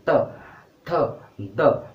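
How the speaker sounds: त, थ, द sounded crisply with the tongue at the teeth; dental sounds demo. Shown as a demonstration. Teacher to class, demonstrating त थ द at the teeth. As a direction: clear letter-by-letter त थ द. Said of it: "दांतों से touch हो रही है कि नहीं".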